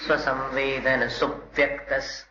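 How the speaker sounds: सुव्यक्तस with the first syllable सु hit hard; stress on su. Shown as a demonstration. Teacher showing students where to put the stress, su stressed. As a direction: press on सु in सुव्यक्तस. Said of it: "सु, इस पर जोर दीजिए".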